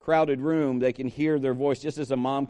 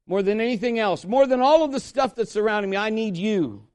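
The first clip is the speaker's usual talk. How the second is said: higher plea, building then easing; earnest prayer; 4 semitones higher than usual. Acted. Preacher puts God above everything around him, earnest rising prayer. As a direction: lift the prayer up, pleading.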